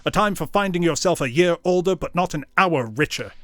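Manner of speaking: loud, heated tirade; angry rant. Acted. Scrooge railing at his nephew, loud angry tirade. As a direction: rail against Christmas.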